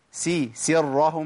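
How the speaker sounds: slow سرهم with a light س; slow correct. Shown as a demonstration. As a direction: sound out سرهم carefully. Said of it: "ما اقولش سرهم".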